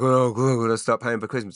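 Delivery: mild put-on grumbling about Christmas bills; a light mock complaint; mock grumble. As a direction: moan it half-jokingly. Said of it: "I'm not gonna be like".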